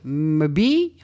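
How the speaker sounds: "Mbi" as a hummed m into "bee"; sounding out. Real, not acted. Host attempts an unfamiliar song name, sounding out. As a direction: say "Mbi" with a held m, then bee. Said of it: "I don't know how to pronounce M B I".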